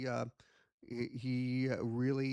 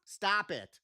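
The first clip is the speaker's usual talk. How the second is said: raised-pitch exasperated telling-off; mock scolding; 6 semitones higher, 3 dB louder than usual. Handler stops his puppet, mock exasperation. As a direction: cut off a cheeky puppet.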